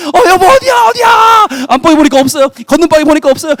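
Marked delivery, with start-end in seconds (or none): 0.1-1.5 much higher, loud desperate yell; frantic shout. Acted. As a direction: scream for her through the fire. Husband shouting search.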